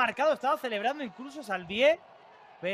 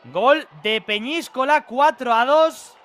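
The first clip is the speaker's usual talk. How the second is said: excited; 7 dB louder than usual. Real, not acted. Goal announcement.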